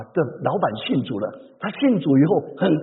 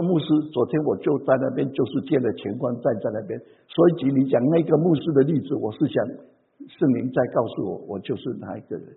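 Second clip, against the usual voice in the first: hushed remorseful confession; 8 semitones lower, 5 dB quieter than usual. Retold or imitated. Sister confessing, conviction from sermon.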